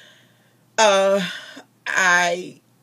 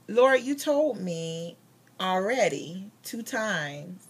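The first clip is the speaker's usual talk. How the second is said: slow, drawn-out retold protest; reminding God; much slower than usual. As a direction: stretch each phrase out to the Lord. Acts out answering God at home.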